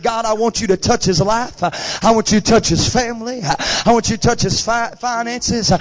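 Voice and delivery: imitated preacher voice. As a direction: pray it like an altar preacher, rhythmically. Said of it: "he's got the preacher voice on".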